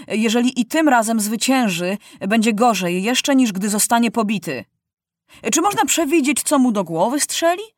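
put-on fed-up notables complain about the boy king; grumbling citizens. Citizens at a council scold Maciuś, lightly indignant.

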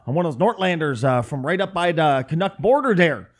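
hammed-up northern Minnesota accent. Shown as a demonstration. Streamer showing where they live, northern Minnesota accent. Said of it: "our accents are slightly different".

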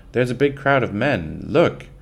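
put-on girl sounding the alarm; cried out. Girl warns her mother about the crowd, crying out. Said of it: "she cried out".

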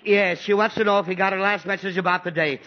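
fed-up father parroting; exasperated repeat. Acted. Exasperated father repeats relayed message.

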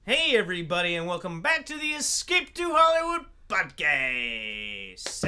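slow, drawn-out host welcome; podcast host intro. Acted. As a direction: stretch the welcome like a show host.

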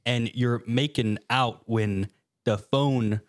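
slow, halting story read; deliberate literal reading. Acted. Clay reads a badly written creepypasta to co-hosts, slow and deliberate. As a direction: read it word by word, drawn out. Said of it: "I'm reading it exactly as it's written".

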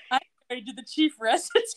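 proud boast. Retold or imitated. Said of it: "she gets all proud".

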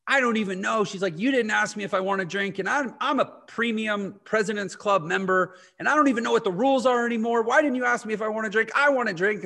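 hammed-up indignant complaining, pitch climbing; retold pissed passenger. Angry passenger scolding the flight attendant, mock outraged whine. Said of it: "She's, like, pissed".

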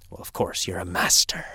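hushed whispered aside. Acted. Teacher whispers to the student, a hushed aside. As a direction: whisper it as a knowing secret.

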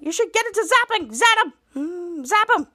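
high, insistent command; exasperated urging. Acted. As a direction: push a distracted teammate to act. Captain snaps back with order.

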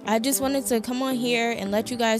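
upbeat promo announcer voice; podcast ad read. Acted.

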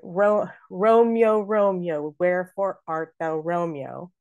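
"Romeo" as two syllables, ROME-yo; Juliet's line with "Romeo" squeezed to rome-yo; elided Romeo. Acted. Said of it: "almost always pronounced Romeo".

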